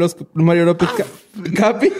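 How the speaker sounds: diciendo redes entre hipos; con hipo. Real, not acted. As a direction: cortado por el hipo. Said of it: "algo le pega hipo". (con hipo al despedirse)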